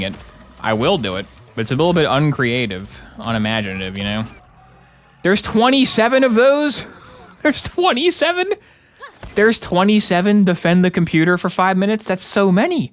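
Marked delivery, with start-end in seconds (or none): 5.2-12.9 much higher, incredulous, half-laughing; can't believe the number, rising in disbelief; disbelieving surprise. Real, not acted. Discovers 27 identical tower quests.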